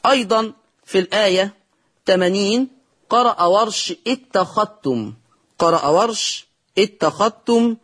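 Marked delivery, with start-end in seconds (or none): 4.1-5.1 اتخذتم said "ittakhattum", ذ absorbed into ت; merged dhal. Shown as a demonstration. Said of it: "يضغم الذال في التاء". 6.8-7.8 اتخذتم said "ittakhattum", ذ absorbed into ت; merged dhal. Shown as a demonstration. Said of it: "يضغم الذال في التاء".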